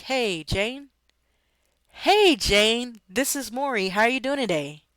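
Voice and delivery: happy greeting. Shown as a demonstration. Sales agent greeting a client happily on the phone. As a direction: greet her like an old friend. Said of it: "You see how that sounds happy versus".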